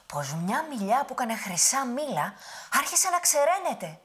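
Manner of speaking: put-on high, loud old woman's lament; fretting old grandmother. Witch pretends a bad dream to the giant, high old voice. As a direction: sigh it like a worried granny.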